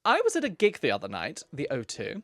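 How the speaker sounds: a hint of an old lady reading aloud; lightly voiced elderly lady. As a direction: keep the old auntie voice going. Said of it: "my elderly lady accent".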